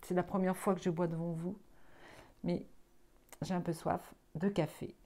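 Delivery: between sips of coffee; while sipping a drink. Real, not acted. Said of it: "je bois mon petit café".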